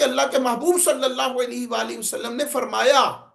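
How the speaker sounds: emphatic orator's rendering with strong rises and falls; public-speaking cadence, key words stressed; oratorical delivery. Shown as a demonstration. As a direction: proclaim it to an audience, leaning on the key words. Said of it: "پھر یوں ہی ہوگا".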